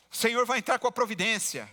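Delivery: hammed-up pious phone talk, a bit loud; loud phone talker. Preacher imitates a believer on his phone at the bus stop, mock loud. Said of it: "ele conversa alto ao celular".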